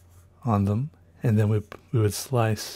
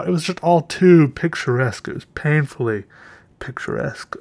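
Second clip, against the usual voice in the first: gushing; 4 semitones higher, 4 dB louder than usual. Real, not acted. Gushing over the view.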